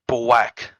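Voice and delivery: "black" said as "bwack", W for L; imitated speech quirk. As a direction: imitate a childish "black" with W replacing the L. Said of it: "'Cause that's how he talks".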